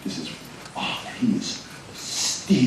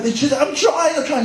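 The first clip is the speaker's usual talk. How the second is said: straining; 4 dB louder than usual. Retold or imitated. Struggling soldier pleads.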